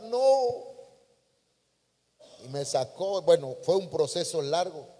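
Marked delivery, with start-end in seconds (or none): 0.0-0.8 high-pitched cry of "no"; acted scream. The clay cup put back in the oven, acted cry. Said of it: "volví a gritar".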